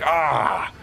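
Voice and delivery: frustrated cry. Acted. Cook struggling to mince an onion, frustrated yelp. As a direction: let out a strangled cry of effort. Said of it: "And I'm all frustrated".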